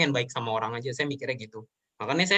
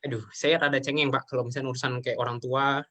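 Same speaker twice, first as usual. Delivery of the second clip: tearful; 2 semitones lower than usual. Real, not acted. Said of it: "saya cengeng".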